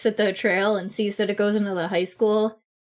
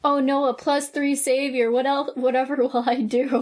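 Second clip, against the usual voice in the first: higher-pitched, playful "woe is me"; mock dismay; 4 semitones higher than usual. Player jokes about the shifted stat, mock dismay. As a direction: feign helpless distress with a laugh creeping in.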